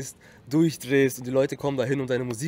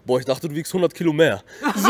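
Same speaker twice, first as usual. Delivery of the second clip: laughing quote; 4 semitones higher, 9 dB louder than usual. Retold or imitated. Quoting surprised people meeting him.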